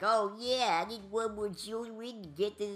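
laid-back surfer dude, lightly voiced; a hint of a chill surfer. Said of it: "I made him sound like a surfer dude".

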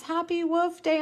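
put-on sing-songy small-child cheer, high and stretched; little daughter's mispronunciation. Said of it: "that's how she said birthday".

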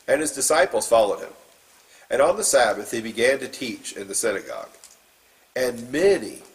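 steady, measured Bible reading; formal scripture reading voice. Acted. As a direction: read the passage to the congregation. Reads scripture aloud.

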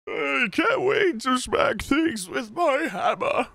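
slow, lightly voiced eager old warrior; a hint of a gleeful elder; old man voice. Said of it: "This voice is evolving".

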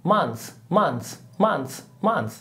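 Month repeated clearly, short; teacher drilling a word; pronunciation drill. Shown as a demonstration. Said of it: "وشهر يعني month".

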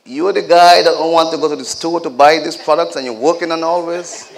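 mock scolding as a mother from the Caribbean; imitated Caribbean mother. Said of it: "Caribbean woman living in London with this wonderful British accent".

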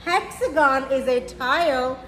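gentle rhyming storybook read; reading to children. A narrator's reading. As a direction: read it slowly to little kids, savouring each rhyme. Reads picture book to children.

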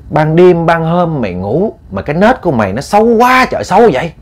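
high-pitched motherly reproach; acted scolding. Mother berates daughter's sleeping habits, acted scolding. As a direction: scold with pitch climbing at the end.

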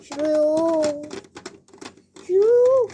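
high frightened shrieking no; scared refusal. Acted. Kids begging not to go in, frightened squeal.

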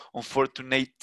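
"unfortunate" drawn out slowly with a hard final t; odd over-drawn word. Shown as a demonstration. Teacher showing students an odd-sounding word, exaggerated "unfortunate". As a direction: show how odd "unfortunate" sounds, stretched to its last t. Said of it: "porque sonaría, primero sonaría súper raro".

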